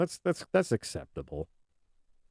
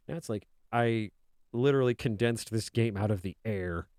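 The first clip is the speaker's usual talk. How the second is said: ordinary talk, nothing marked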